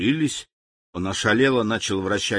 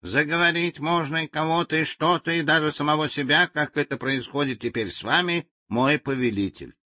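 talking machine explaining; 4 semitones higher than usual. Acted. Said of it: "Говорильная машина принялась объяснять".

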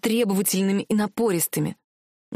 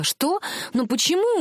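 higher, startled question; a sudden startled why; surprised; 7 semitones higher than usual. A narrator's reading. Heroine stunned by the prince's answer, surprised. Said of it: "удивлённо посмотрела на принца".

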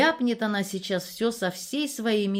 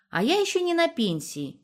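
stubborn; 11 semitones higher than usual. A narrator's reading. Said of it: "не сдавалась Верка".

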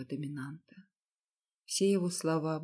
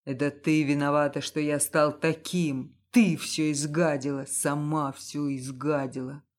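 louder, stressing ты; raging; 3 semitones lower, 5 dB louder than usual. Acted. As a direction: rage and blame her. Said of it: "продолжал неистовать муж". (в неистовстве, громко обвиняя)

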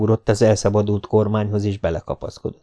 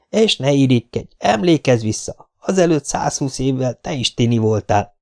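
sweetly mocking, a little higher; sugary mockery; 3 semitones higher than usual. Spider mocking the old woman from the car window, sugary. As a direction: taunt her in a syrupy tone. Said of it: "negédes hangon megszólalt".

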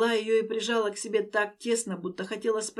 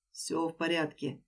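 reassuring; 4 semitones lower, 5 dB quieter than usual. Acted. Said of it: "произнёс уверенно".

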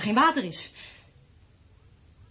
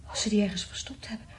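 frightened whisper; 5 dB quieter than usual. Acted. Wife hears a dog, frightened.

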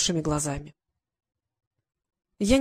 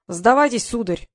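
pleased; 2 semitones higher, 4 dB louder than usual. Acted. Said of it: "довольно произнёс кузен".

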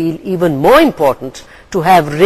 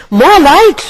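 loud, higher roar; 10 semitones higher, 6 dB louder than usual. A narrator's reading. Raven roaring at Gull to open the box. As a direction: bellow it out hard. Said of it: "roared Raven".

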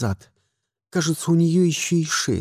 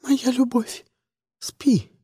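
sobbed; 7 semitones higher, slower than usual. A narrator's reading. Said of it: "всхлипнула Фиона".

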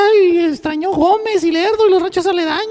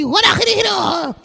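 mock Arabic gibberish; 4 semitones higher than usual. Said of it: "él dijo ahí".

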